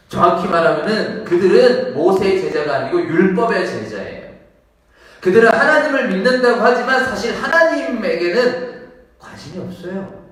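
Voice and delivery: loud, emphatic sermon delivery; preacher raising the voice to correct; forceful preaching. Real, not acted. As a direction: hammer the distinction home.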